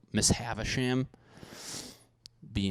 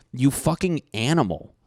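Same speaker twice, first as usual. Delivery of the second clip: higher, mock-disgusted outburst; retold yell; 5 semitones higher, 3 dB louder than usual. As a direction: scold a friend in mock outrage. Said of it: "I used to yell at my friend".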